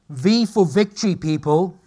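loud motivational call to the audience; rallying call. Real, not acted. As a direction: pump the crowd up.

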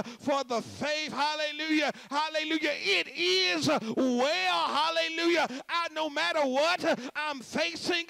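fervent shouted preaching, hallelujahs punched out; full-force preaching. Real, not acted. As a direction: build to a roaring, rhythmic sermon climax.

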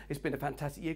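quite nice. Shown as a demonstration. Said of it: "quite nice".

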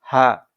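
হা struck hard at the throat's start, loud; a firm glottal হা; firm hamza. Shown as a demonstration. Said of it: "এখান থেকে উচ্চারণ করব হচ্ছে হামজা". (শক্ত করে হা)

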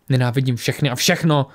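a touch of bitter fury; raging. Acted. Tora raging at Lisbeth, a touch of fury. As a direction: spit out the hatred. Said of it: "vztekala se Tora".

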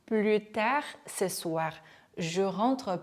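slow teacher's French, "plus" said as "plu"; measured demo, no S in "plus"; silent S model. Shown as a demonstration. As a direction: drop the S in "plus" before "tard". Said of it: "요렇게 plus로 발음을 했습니다".

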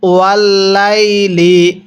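ওয়াল্লাইলি drawn out slowly; slow recitation. Shown as a demonstration. Teacher models the word for students, slowly. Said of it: "কিভাবে পড়ব?".

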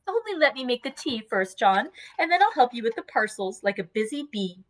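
put-on bustle about, fussing over baby and dog; busy young wife.

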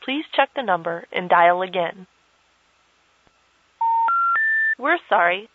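automated phone recording voice; disconnected number message. Acted. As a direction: read it like a telephone intercept recording.

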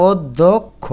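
slow অধ্যক্ষ, "od... dhok... kho"; syllable by syllable. Shown as a demonstration. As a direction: break up অধ্যক্ষ from a closed 'o'. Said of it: "একটু ওর মতো উচ্চারণ করি". (অধ্যক্ষ, ধীরে ভেঙে ভেঙে)

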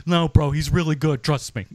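put-on brash Australian fan insisting in an Australian accent. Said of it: "That's a good Australian accent".

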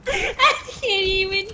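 excited mock Australian through laughter; laughing mock Australian accent; Aussie wildlife host. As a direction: do a crikey croc hunter bit. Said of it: "It sounds so Australian".

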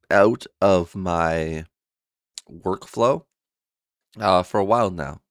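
talking with a swollen tongue; thick, awkward tongue. Real, not acted. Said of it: "My tongue was swollen. It kinda still is".

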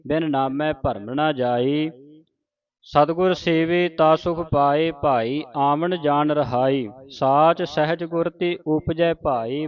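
slow, measured recitation with drawn-out vowels; scripture recitation. Shown as a demonstration. Teacher reciting a shabad for the congregation, slow measured recitation. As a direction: recite the sacred verse slowly, stretching line endings.

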